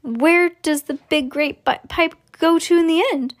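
high, frantic mother's question; mock shriek. A narrator's reading. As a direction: demand it in a hammed-up panic. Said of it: "shrieked Missus Salt".

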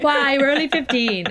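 put-on high, loud teenage outrage; mock-protest like a fed-up fifteen-year-old; indignant protest. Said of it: "and I was like".

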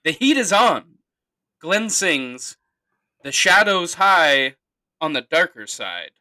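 slow, grand lyric reading; dramatic recitation. Shown as a demonstration. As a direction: read the lyrics like a solemn poem. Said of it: "reading lyrics slowly, dramatically".

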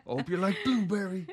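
high, loud laughing taunt; laughing quip. Pretend. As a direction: toss it off while laughing. Mock quip for the bagels.

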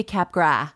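"Capgras" said as CAP-grah; silent final S. Shown as a demonstration. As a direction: drop the S at the end of "Capgras". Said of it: "you dropped the S sound".

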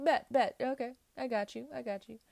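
high, punchy, quick agreement easing off; loud bets, then quick high assurances; eager acceptance. Acted. Tarot reader acting out accepting a challenge, eager and high.

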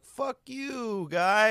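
play-acted sarcastic swearing; sarcastic John Boy impression. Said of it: "like, so sarcastic".

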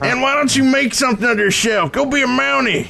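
high Canadian parent nagging, laughing; Canadian accent. Retold or imitated. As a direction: scold your kid in a Canadian accent. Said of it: "Pulling out them Canadian references".

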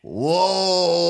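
drawn-out startled cry; hammed-up wail of alarm; mock fright. Jeweler facing a robber, mock fright. Acting a frightened hold-up victim.

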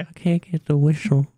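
attempted whistly S in a cartoon voice; Herbert. Shown as a demonstration. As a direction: have a go at the whistling cartoon impression. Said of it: "I can do an impression".

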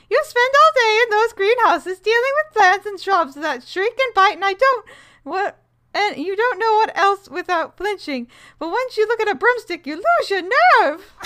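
high put-on Rolanda voice; a high, teasing character accent. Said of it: "my character voice".

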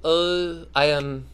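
halting try at Irish accent; attempted Irish accent. Shown as a demonstration. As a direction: feel for an Irish accent and fumble. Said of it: "That was me trying to do Irish".

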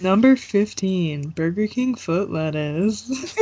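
slow, hammed-up countdown host; drawn-out list-show announcer. Countdown host bit continues.

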